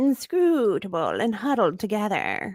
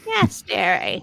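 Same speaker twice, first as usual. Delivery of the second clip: witch voice; 3 dB louder than usual. Acted. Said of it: "that witch voice".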